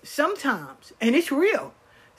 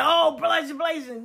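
high outburst tapering off; mock gossip shout; 6 semitones higher than usual. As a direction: call out blazing in mock alarm. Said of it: "they're not gonna be like".

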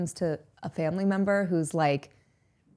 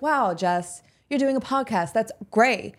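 mock excited praise; 4 semitones higher, 5 dB louder than usual. Wished-for praise from mom.

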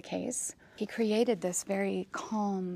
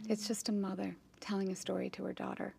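hushed; 9 dB quieter, faster than usual. Real, not acted. Moved, quiet retelling.

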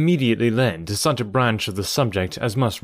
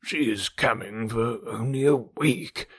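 depressed tone; 4 dB quieter, slower than usual. Acted. Father complains to daughter, in a very depressed tone. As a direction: let the words sink with gloom. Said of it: "in a very depressed tone".

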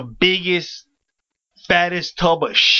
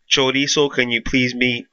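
low-pitched store intercom page; intercom announcer; 5 semitones lower than usual. Retold or imitated. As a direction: imitate a staffer paging someone over the intercom. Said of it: "this is what I hear over the intercom".

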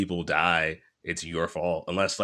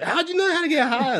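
pitched way up, a goofy cartoon sidekick; squeaky sidekick voice. Friend teases the grieving lion cub, in a high goofy squeak. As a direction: squeak it out like a silly jungle buddy. Mocking Timon and Pumbaa in Lion King.

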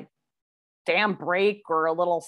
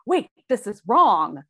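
slow, louder mock doubt; drawn-out, skeptical objection; 3 semitones higher, 6 dB louder, slower than usual. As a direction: voice a doubter stopping short. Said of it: "you're skeptical of".

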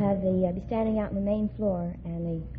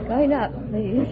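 sweet smiling call; 5 dB louder, much slower than usual. Shown as a demonstration. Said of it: "That's a good, nice big smile".

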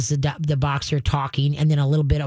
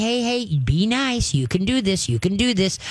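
upbeat encouraging dog talk, pitched up; cheerleader; 3 semitones higher than usual. Shown as a demonstration. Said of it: "Be the cheerleader".

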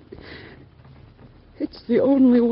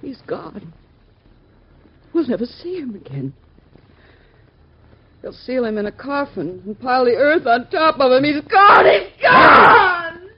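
wailing shout, higher and louder; mother wailing over her dead son; hysterical sobbing; 4 dB louder than usual. Acted. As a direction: break down screaming in grief. Mother breaking down in grief.

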